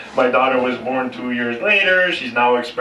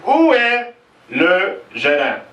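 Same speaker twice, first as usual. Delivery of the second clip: mock demand; 6 semitones higher, slower than usual. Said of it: "has a famous Irish temper".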